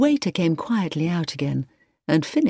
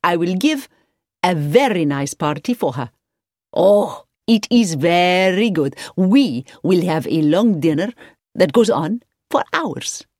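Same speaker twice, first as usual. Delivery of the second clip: effusive hotelier Marcus; 3 dB louder than usual. A narrator's reading. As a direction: gush with swooping emphasis on key words. Marcus gushes over his guest.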